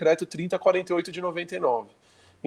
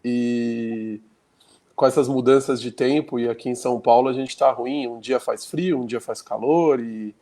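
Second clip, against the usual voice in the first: rhinitis-stuffed nose; blocked nose. Real, not acted. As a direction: talk through a congested nose. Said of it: "aí o nariz não fica muito bom não".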